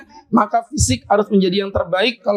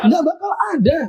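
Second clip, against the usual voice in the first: laughing dismissal; 7 semitones higher than usual. Real, not acted. Joking reproach to the committee.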